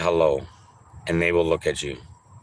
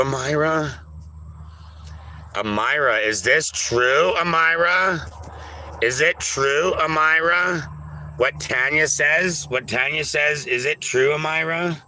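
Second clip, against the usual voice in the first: pleading questions; 6 semitones higher than usual. Acted. Accusing Amira of lying.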